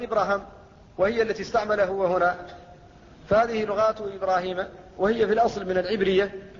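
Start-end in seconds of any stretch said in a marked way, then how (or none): 0.0-0.5 إبراهام said ibraham with both a's short; both alifs dropped. Shown as a demonstration. Teacher showing the variant that drops both alifs, إبراهام said short. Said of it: "أو يحذف الألفان معًا فيقال".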